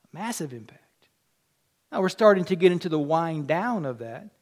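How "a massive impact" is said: massive said soft and low; a preacher repeating the point in a near hush; hushed echo. Acted. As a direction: let it sink in quietly. Quiet echo of previous line.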